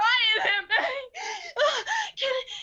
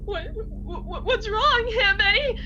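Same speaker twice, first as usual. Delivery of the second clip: crying plea. Acted. Mother begs for stillborn baby.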